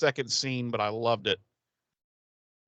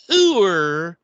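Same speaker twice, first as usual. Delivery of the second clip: laughing high; 11 semitones higher, 8 dB louder than usual. Real, not acted. Laughing over the name.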